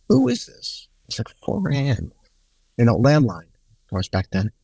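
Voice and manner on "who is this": groggy 4 a.m. demand. Retold or imitated. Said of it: "And I go".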